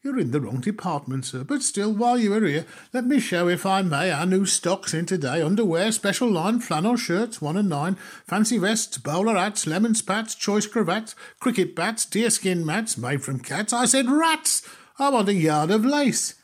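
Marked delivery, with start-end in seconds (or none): 0.0-13.7 a light leering shopkeeper's sales patter, rising higher; leering salesman. Acted. Shopman leering while pushing his new stock, patter. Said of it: "He answered with a leer". 14.1-16.3 higher, louder fed-up demand; exasperated outburst. Acted. Fed-up customer snapping at the shopman for lace, exasperated.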